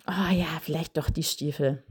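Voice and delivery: put-on child giving in. Child agrees in role-play.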